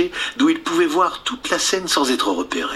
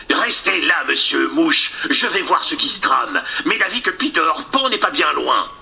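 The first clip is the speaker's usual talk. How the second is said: pirate captain; 3 semitones higher than usual. Acted. Captain Hook speaks to Mouche.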